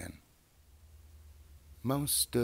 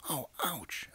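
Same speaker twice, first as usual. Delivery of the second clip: hurt voice; 9 semitones higher than usual. Acted.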